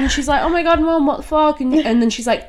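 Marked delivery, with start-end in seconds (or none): 0.4-1.6 high-pitched, disbelieving retelling; mock shocked daughter.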